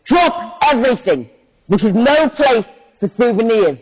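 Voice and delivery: put-on understated shout of a young army officer. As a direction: call out an order to the crowd. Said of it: "started shouting".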